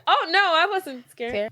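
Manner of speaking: high, drawn-out mock denial; unconvincing denial. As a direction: imitate her badly hiding that she's scared. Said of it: "no, she was scared".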